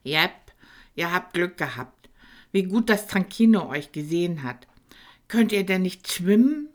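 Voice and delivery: lightly voiced little dragon, concerned; a small dragon, worried for them. Tankino speaks to the boys. (Tankino fragt die beiden besorgt, kleiner Drache)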